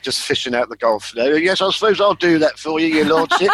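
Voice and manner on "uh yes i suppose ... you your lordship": comedy butler. Pretend. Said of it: "the ideal moment for a comedy butler".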